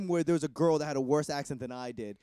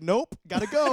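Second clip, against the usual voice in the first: hasty brush-off; 8 semitones higher, 8 dB louder than usual. Retold or imitated. His retold brush-off.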